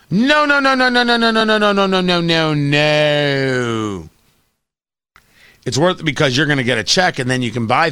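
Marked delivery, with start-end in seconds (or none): 0.1-4.1 emphatic nos. Real, not acted. Rejecting the idea.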